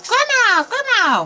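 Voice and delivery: put-on panicked girl hollering. A narrator's reading. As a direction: yell for grandma inside the wolf. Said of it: "and hollers".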